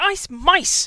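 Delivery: shrill, very loud, high, full-volume shout. Reading a story, a student in a hurry shouts the password at a portrait, shouted. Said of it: "Hermione shouted".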